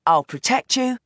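put-on firm young woman giving orders; Roxy, commanding. Daughter tells her father he is retiring, firm and commanding. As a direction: lay down the terms, no argument. Roxy takes over, voiced higher.

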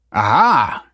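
loud, triumphant little cheer; a pleased cry of discovery. A narrator's reading. Michael finds what he wanted in the crate, cheering. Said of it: "cheered Michael".

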